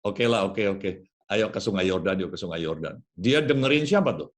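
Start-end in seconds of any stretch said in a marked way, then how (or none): 0.1-3.0 grudging agreement. Acted. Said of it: "dia bilang".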